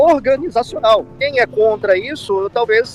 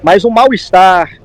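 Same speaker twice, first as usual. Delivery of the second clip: louder, pressing each point home; emphatic; 2 semitones lower, 6 dB louder than usual. Real, not acted. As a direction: insist firmly, almost pleading. Insisting the comment is only fact.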